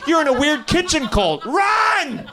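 hammed-up panic, urge her to flee; over-the-top shouted warning to run; mock alarmed shout. Warning audience member, mock alarm.

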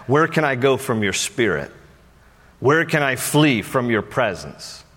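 measured psalm reading, each phrase set apart; scripture recitation. A narrator's reading. Preacher reading David's psalm to the congregation, measured recitation. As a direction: recite it solemnly with long pauses between phrases.

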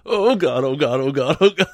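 mock dismay. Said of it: "I was like".

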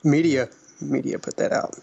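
ordinary talk, nothing marked

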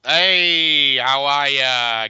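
ordinary delivery

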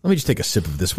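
usual speaking voice

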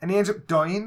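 usual speaking voice

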